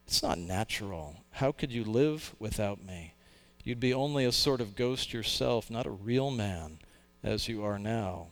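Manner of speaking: wheedling lizard. Acted. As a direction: murmur it like a tempter. Lizard whispers to the ghost.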